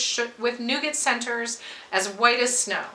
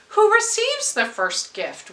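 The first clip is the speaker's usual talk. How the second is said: eager question; 9 semitones higher than usual. A narrator's reading. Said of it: "we all asked".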